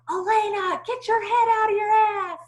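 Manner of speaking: loud, high coach's yell; dad yelling. Retold or imitated. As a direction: holler it down the whole court. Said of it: "how he would yell all the way down".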